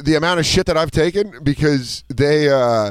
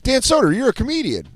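high-pitched starstruck clerk; excited recognition; 11 semitones higher than usual. Retold or imitated. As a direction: imitate a delighted fan's realisation. Clerk suddenly recognises the comedian.

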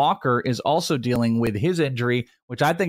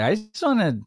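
stoner voice; 2 semitones higher than usual. Retold or imitated. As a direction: imitate a stoned player rambling. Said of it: "he's just like".

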